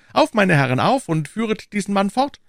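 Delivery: high, loud command; calling out orders. A narrator's reading. D'Artagnan telling guards to lead the man off, commanding. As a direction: urge them briskly away.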